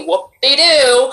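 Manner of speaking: slow, drawn-out sarcastic cheer; sarcastic whoop-de-doo. Real, not acted. Actress shrugging off her own natural voice, slow and sarcastic. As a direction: stretch it out, mocking yourself.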